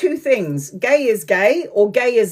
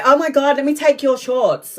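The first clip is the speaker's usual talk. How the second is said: higher, eager put-on voice; mock excited cousin; 4 semitones higher than usual. Cousin begging for her shorts, mildly camp. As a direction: gush like you want the shorts. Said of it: "I'm like".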